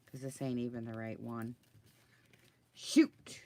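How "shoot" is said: sharp, loud frustrated shout; a real yell at a crafting mistake; loud curse. Real, not acted. Realizes wrong image.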